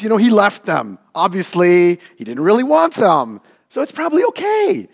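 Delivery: a hint of sly self-talk; tempted inner voice. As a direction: talk yourself into taking the wings. Voicing his own tempted inner voice.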